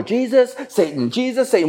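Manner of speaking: mock back-and-forth shouting match. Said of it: "It was literally a shouting match".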